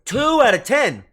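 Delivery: loud, high outraged exclamation; indignant disbelief. Real, not acted. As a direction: repeat the score in shocked protest. Outraged at a low pose rating.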